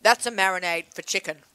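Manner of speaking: talking while chewing; mouth full. Real, not acted. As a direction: speak through a bite of food. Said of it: "You can hear me chew".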